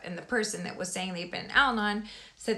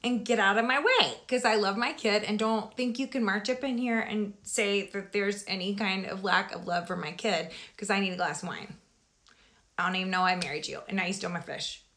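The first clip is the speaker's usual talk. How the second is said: retold tirade. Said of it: "I'm like".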